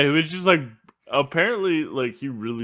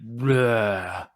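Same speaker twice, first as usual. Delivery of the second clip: imitated breath blast. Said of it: "talk all close. And it's just".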